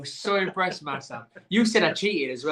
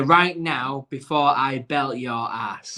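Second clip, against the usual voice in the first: slow reading of answer; 4 semitones lower, slower than usual. Shown as a demonstration. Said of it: "is what I put".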